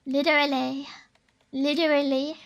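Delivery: American accent. Shown as a demonstration. Streamer practising literally with a D, American accent. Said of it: "they always say with a D".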